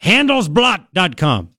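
slow, deliberate German-style Handelsblatt; rough German pronunciation. Shown as a demonstration. Host sounding out a German site name, rough German accent. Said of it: "That's how they say it. It's very rough language".

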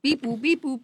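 high, beeping robot noises; toy robot voice. Pretend. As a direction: beep like a wind-up toy.

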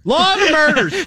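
mock-grim jab at Baltimore; ominous mock aside. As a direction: drag it out like a cheesy doom line.

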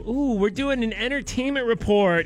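lightly mocking morning DJ voice; drawn-out sleazy entertainment report; cheesy radio host. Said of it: "how people still do".

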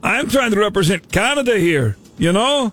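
hammed-up fake Canadian accent, a hint of Irish; bad Canadian accent. Prank caller as Canadian customs officer, bad Canadian accent. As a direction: play a Canadian customs officer badly, all 'eh' and 'there'. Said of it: "Sound like a leprechaun".

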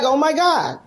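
slow, stunned disbelief; shocked and hurt. Retold or imitated. Daughter stunned by her father's outburst, slow and hurt. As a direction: let the hurt sink in on each word. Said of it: "I was like".

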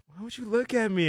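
high, squeaky imitation of a strung-out woman; mock crackhead woman. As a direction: pitch it way up like the spaced-out girl. Quoting the woman.

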